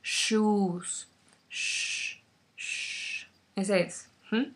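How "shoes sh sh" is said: "Sh" as a soft hiss, teeth apart; sh sound. Shown as a demonstration. Teacher showing sh, not ch. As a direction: hush like asking for silence. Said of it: "la sh es más difícil".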